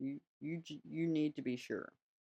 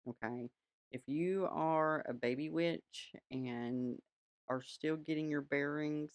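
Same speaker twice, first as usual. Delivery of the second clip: witchy aunt voice. Pretend. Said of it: "here's where I'm gonna put on my witchy aunt voice".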